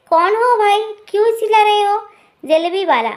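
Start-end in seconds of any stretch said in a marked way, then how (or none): 0.1-2.0 louder and higher, mother-in-law snapping at a stranger; annoyed shout. Acted. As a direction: call out sharply at the man at the door. Angry mother-in-law shouting at visitor. (सास की ऊँची झुंझलाई आवाज़)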